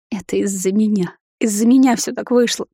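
lightly tearful self-blame, rising in pitch; quiet crying. A narrator's reading. Mother blames herself for the danger, mild crying. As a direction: blame yourself, on the edge of tears. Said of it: "подрагивать от тихого плача".

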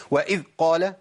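وإذ قال with the ذ of وإذ stopped short like a plosive; wrong demo, ذ in وإذ clipped off abruptly; cut-off dhal. Shown as a demonstration. Quran teacher demonstrating the mistake: ذ in وإذ cut short. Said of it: "ده غلط، خطأ كبير جدًا".

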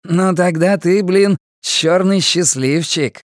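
mocking inmate. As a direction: taunt him with a smirk. Guatemalan mocks Karl.

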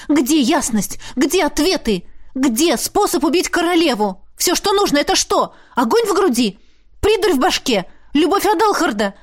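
high, escalating rant; angry tirade. A narrator's reading. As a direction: fire off each question. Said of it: "гневной тирадой". (гневная тирада, высоко)

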